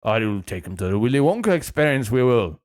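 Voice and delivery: lightly voiced fake Scottish parent; bad Scottish accent. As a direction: attempt a Scottish parent's reply. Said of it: "Can't do Scottish".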